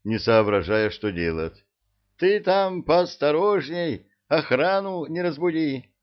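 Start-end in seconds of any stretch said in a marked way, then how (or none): 2.1-5.9 high, loud warning call. A narrator's reading.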